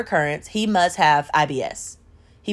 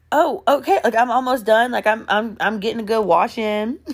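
higher, breezy stalling; imitated casual man; 3 semitones higher than usual. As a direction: lightly imitate him putting her off. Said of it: "he's like".

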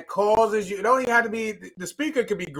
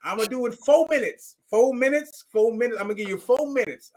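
quick auctioneer-style countdown, raised higher; 5 semitones higher, 3 dB louder than usual. Retold or imitated. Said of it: "they like an auctioneer now".

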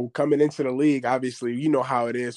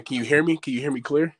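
remote caller on a phone line; over the phone; 4 semitones higher than usual. Real, not acted. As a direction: voice coming through a call. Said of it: "It just sounds like that".

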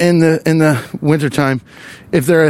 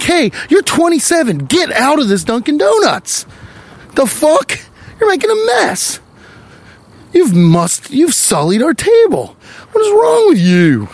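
mock angry staff; 10 semitones higher than usual. Imitated Dunkin' Donuts staff scolding a dunking adult, mock angry. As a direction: play the outraged donut shop worker throwing him out. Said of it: "They're like".

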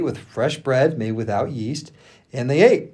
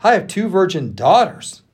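urgent, higher-pitched plea; louder, impassioned entreaty; begging; 6 semitones higher, 4 dB louder than usual. A narrator's reading. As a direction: plead hard with the crowd, voice raised. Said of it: "he begged".

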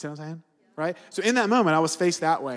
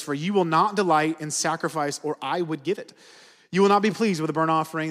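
scripture reading. Acted. Reads the psalm aloud.

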